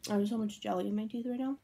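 talking while chewing candy; candy held at lips; mouth partly full. Real, not acted. Seen 2: Speaker unclear; left person holds candy at lips while talking, likely chewing.

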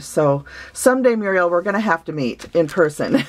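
bright, lifted hopeful someday. Real, not acted. To her friend Muriel, a bright hopeful someday. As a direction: say it like a happy wish. Wistful hope to meet friend.

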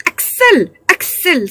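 a high, ringing call that drops on the repeat; excited cry. A narrator's reading. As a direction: cry out the name in wild joy. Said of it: "s'écria-t-il".

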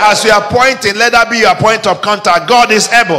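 rally the crowd to shout it back; preaching at full force. Real, not acted. Pastor urges the congregation to declare the verse, loud preaching call.

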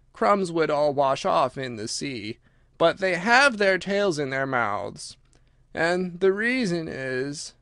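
very slow, drawn-out creature voice; Mock Turtle, ponderous. Mock Turtle explains the whiting, slow and ponderous. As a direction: trudge through the explanation word by word.

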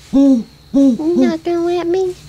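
slow, stretched-out tease; slow drawn-out pet talk. Real, not acted. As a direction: drag the words out slowly at the pet. Teasing the pet.

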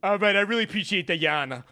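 rally the Italians in a mock New York Italian voice; put-on Italian accent. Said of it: "show that I'm Italian from New York City".

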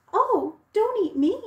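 high, loud mock plea; frightened little goat. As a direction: squeak it out like a scared kid goat. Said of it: "said the littlest billy goat".

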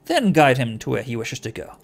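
measured command; quiet, cutting order. Acted. Feyrod ordering Anna to be his minder, controlled cutting voice. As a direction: give a controlled order that cuts through. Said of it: "Feodor's voice is quiet, but it cuts through".

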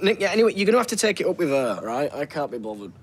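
impatient brush-off. Acted. Telling Nick to take it up with her, impatient.

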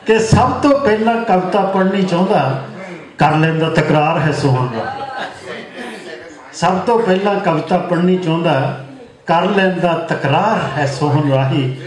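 lilting mushaira verse, phrase by phrase; poem recitation. Acted. Poet praising his friend to the gathering, lilting recitation. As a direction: repeat the opening line, settle onto the refrain.

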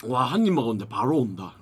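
speaking between bites; talking while chewing. Real, not acted. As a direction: mouth partly full of food. Seen 1: Mukbang eater, jaw working and cheeks full while speaking after bite.

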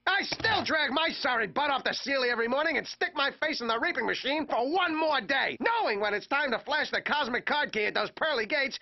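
rising, heated rant; escalating comedy rant. Acted. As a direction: build the outrage.

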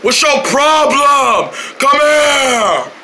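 a slow put-on menacing voice; change your voice to scare him; changed voice. Chasing the boy in a changed voice, slow and threatening. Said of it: "Why you sound like that?".

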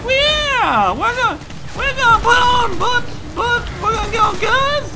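very high-pitched hillbilly henchman; hammed-up hillbilly bad guy, all fired up; hillbilly accent. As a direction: squeal eagerly like a dim hillbilly goon. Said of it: "they got a hillbilly accent".

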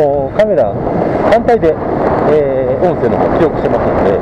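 muffled through a helmet; inside a helmet. Real, not acted. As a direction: voice heard through helmet padding. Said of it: "ヘルメット越しの声になりますから".

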